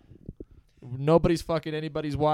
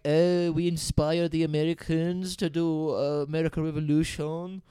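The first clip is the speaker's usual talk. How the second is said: mock French speaker; 2 semitones higher than usual. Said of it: "where they're like".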